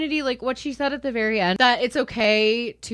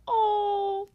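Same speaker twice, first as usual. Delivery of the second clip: touched, near tears; 9 semitones higher than usual. Real, not acted. Comforting the original poster, tender and teary. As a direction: gush like you're about to cry. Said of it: "I'm gonna cry".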